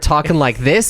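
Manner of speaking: American belly voice. Shown as a demonstration. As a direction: demonstrate resonant American talk from the belly. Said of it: "when an American person comes on".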